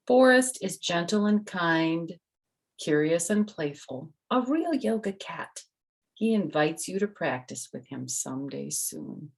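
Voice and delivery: bright storybook reading voice; reading to children. Acted. The author reads her book to the kids, bright storytelling. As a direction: read it out to little listeners.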